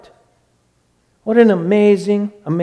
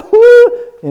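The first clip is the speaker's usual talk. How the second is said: high whimpering cry; 7 dB louder than usual. Shown as a demonstration. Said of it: "in very quick order".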